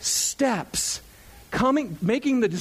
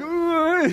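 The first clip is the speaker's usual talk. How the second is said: mock groan for camera; 8 semitones higher than usual. Acts waving at the camera.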